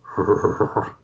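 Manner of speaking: rolling, wordless bear growl; mock bear growl. Shown as a demonstration. Showing friends a real Russian accent, mock bear growl. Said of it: "A real Russian accent should be like".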